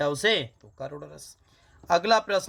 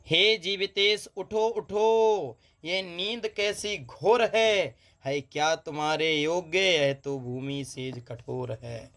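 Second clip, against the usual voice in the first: poem recitation; slower than usual. Acted. Teacher reciting a lament to students, slow recitation. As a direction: draw out the lament slowly. Teacher reads mournful verse.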